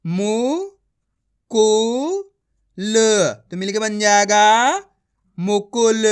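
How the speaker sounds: मु, कु, ल spaced apart, then मुकुल said whole; syllable by syllable, then blended. Shown as a demonstration. Teacher sounds out a word for the class, syllable by syllable then joined. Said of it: "आपको मेरा तरीका देखना है".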